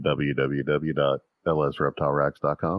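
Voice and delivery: slow, low smooth radio announcer. Acted. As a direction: read the web address like a smooth ad announcer. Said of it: "I had my nice announcer voice going".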